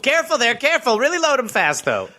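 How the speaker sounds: put-on high old-timer voice; old prospector. Voicing a digger's boss.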